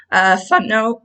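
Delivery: squeaky voice break, unintended; voice squeak. Real, not acted. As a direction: voice cracks upward on fun. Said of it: "I don't know why my voice squeaked".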